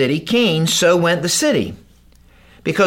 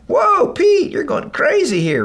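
a crowd yelling at Peter in disbelief; Peter's bold number met with a shout; mock shout; 12 semitones higher, slower than usual.

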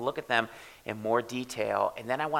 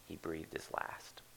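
slow, fading whisper; 4 semitones lower, 12 dB quieter, slower than usual. Acted. Preacher reading the death of Jesus, slow whisper. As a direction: let the breath go out with the words.

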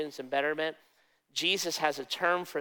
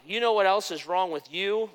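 scolding pastor; 4 semitones higher, 3 dB louder than usual. Retold or imitated. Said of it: "he'd call you out".

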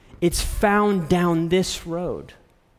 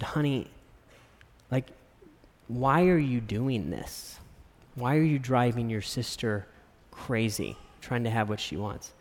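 gentle father; 3 semitones lower, 5 dB quieter than usual. Retold or imitated. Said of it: "I said".

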